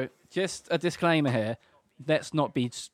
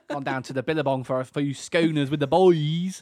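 broad mock Aussie; Australian accent. Friends trading Aussie catchphrases, hammed-up Australian accent. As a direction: lay on a thick Australian accent. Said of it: "our Australian accents for us".

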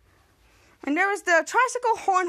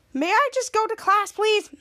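pleading; 6 semitones higher than usual. Retold or imitated. Charlotte pleading.

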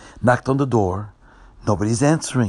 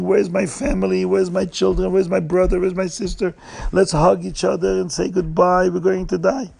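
higher-pitched, anxious run of questions; mild acted panic, no real shouting; mock screaming; 5 semitones higher than usual. Passengers seek their families before dying, mild mock panic. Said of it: "everybody was screaming".

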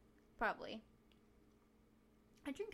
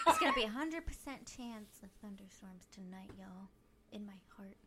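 folksy local news anchor; 4 dB louder than usual. Pretend. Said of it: "Back to you at the station".

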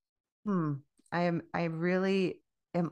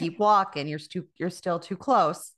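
louder mock shoo toward the door; shooing away; 4 dB louder than usual. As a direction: wave them out, louder each time.

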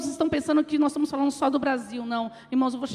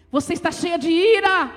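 higher, more forceful reproof; emphatic rebuke; 4 semitones higher, 4 dB louder than usual. Retold or imitated. Holy Spirit rebuking the praying woman, emphatic voice. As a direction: press the accusation home.

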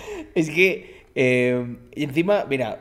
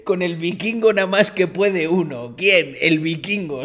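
quoting the viking; 4 semitones higher, 4 dB louder than usual. Retold or imitated.

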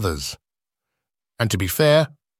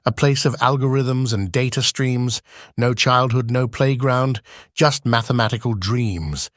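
measured rhyming recitation; steady, lightly rhythmic verse reading; poem recitation. Acted. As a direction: recite it like a spoken-word poem. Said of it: "responses ... in poem form".

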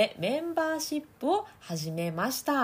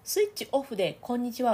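switched-off voice; 4 semitones higher than usual. Shown as a demonstration. Voice coach demoing a switched-off hello. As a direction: voice kept in the mouth, lightly. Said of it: "を言うと".

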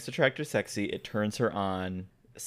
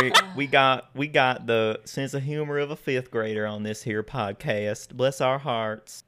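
folksy mock-Southern twang; Southern accent. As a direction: lay on a playful Southern accent. Mock Southern podcast intro.

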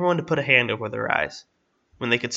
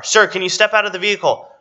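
raised, higher-pitched demand; insistent calling out; 8 semitones higher, 6 dB louder than usual. Acted. Woman ordering the man out of the car, calling out. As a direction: project it firmly towards the car.

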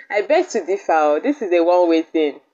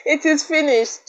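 mock dramatic; 11 semitones higher, slower than usual. Real, not acted. Mock dramatic after laughing.

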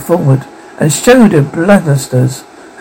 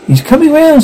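smirking; 11 semitones higher than usual. A narrator's reading. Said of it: "said Miguel with a smirk".

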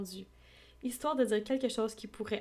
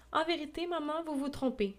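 embarrassed protest; 6 semitones higher than usual. Acted. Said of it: "s'écria Elizabeth en rougissant".

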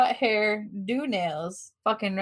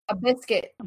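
attempted Aussie accent. Shown as a demonstration. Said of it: "I'll do my best".

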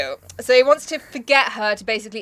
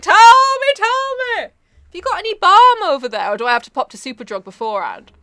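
much higher, loud, melodramatic begging; hammed-up pleading; 8 semitones higher, 7 dB louder than usual. Mocking the narrator begging the Raven for balm, shrill and hammed up. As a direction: overplay the desperate narrator.

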